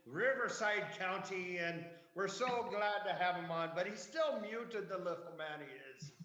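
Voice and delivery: lightly lilting put-on Irish accent. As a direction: keep up the playful Irish accent, easing down. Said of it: "I'm not even gonna try to do the Irish accent".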